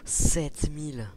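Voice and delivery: slow, loud, drawn-out amazement; stunned exclaim. Real, not acted. After landing a huge hit, loud slow amazement. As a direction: let the number land in disbelief.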